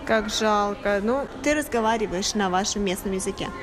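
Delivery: ordinary delivery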